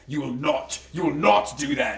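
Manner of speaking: lightly mock-heroic deep voice, copying Thor; Star-Lord. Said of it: "Are you making your voice deeper?".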